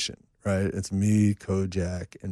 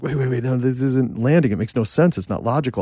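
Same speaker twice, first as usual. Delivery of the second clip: imitating objecting co-writers, higher and louder; mock protest; 5 semitones higher, 5 dB louder than usual. Co-writers object to the stuff about a singer, mock protest. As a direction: push back in a raised voice.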